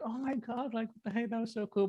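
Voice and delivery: high-pitched mock gush of excitement; imitated gushing. Coworker who normally would gush over the moment, imitated excitement.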